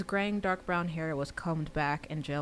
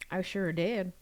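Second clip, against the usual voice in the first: a light Southern country lilt on the reply; slight country accent; 3 semitones higher, 3 dB louder, slower than usual. Acted. Teen boy answering his friend on the phone, in a hint of a country accent. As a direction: say it with a hint of a country drawl, playful. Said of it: "with a slight country accent".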